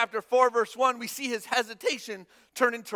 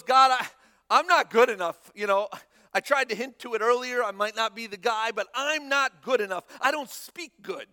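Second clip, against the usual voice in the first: pleading Moses; 5 dB louder than usual. Acted. Moses pleading his inadequacy to God.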